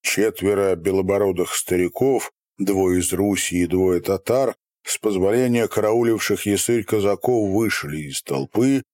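usual speaking voice

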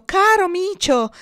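high, loud, drawn-out endearment; coaxing call. A narrator's reading. Boy runs to the cat for help, coaxing call. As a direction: sweet-talk the cat, stretching it out.

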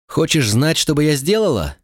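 громко, с вызовом выкрикнуть; крик в туман, выше обычного; выкрикнула. A narrator's reading. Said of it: "выкрикнула Вин". (Вин выкрикивает вопрос вслед уходящему Зейну)

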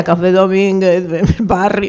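put-on like an old tango reciter who sounds a bit drunk; old tango recitation. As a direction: imitate the old recitation, slightly slurred. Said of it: "si lo dijera yo de esa misma manera".

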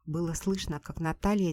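ordinary delivery, nothing marked

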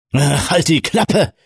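high, slow shout over the noise. A narrator's reading. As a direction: yell it over the rotors. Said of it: "schrie Roger über den Lärm der Rotoren".

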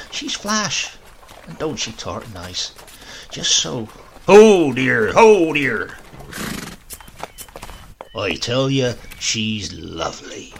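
put-on a doting old man sighing over a pretty girl; grandfather. A narrator's reading. Grandfather praising the bride, besotted old man voice.

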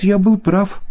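high, gleeful I-told-you-so; triumphant. Acted. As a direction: crow it out like a winner. Илья торжествует, хлопая. (торжествующе, высоко)

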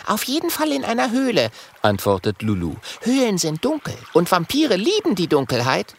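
put-on high girl's voice; young dragon girl. Lulu voiced.

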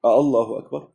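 "آه، الله أكبر" with a rising "آه"; questioning takbir. Shown as a demonstration. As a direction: lift "آه" as a question. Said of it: "سؤال".

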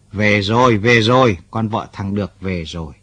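calling out relieved news; old neighbour shouting glad tidings; excited. Acted. Old man brings good news.

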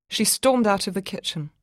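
usual speaking voice

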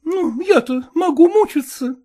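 a hint of a brisk, frank young lady; lightly voiced young woman. Young woman coolly tells her suitor to speak plainly.

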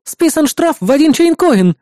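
high, slow prim assistant voice; prim announcement. A narrator's reading. Assistant Eris announcing the penalty, high and prim. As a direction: announce the fine primly.

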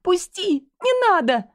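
high, loud sobbing cry; sobbing plea. A narrator's reading. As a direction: beg him to let go through sobs. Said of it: "всхлипываю я". (всхлипывающая мольба)

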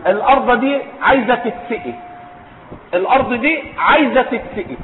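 colloquial Egyptian farmer's Arabic. Retold or imitated. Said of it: "يقول".

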